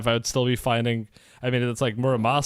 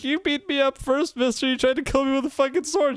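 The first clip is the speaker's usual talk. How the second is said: high, petulant complaint; girl blaming the man who attacked first; indignant girl; 10 semitones higher than usual. Retold or imitated. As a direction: whine like a wronged little girl. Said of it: "she's like".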